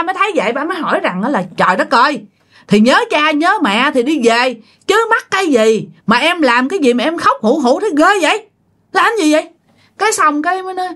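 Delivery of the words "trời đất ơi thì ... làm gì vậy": exasperated question. Retold or imitated. Father exasperated at crying wife.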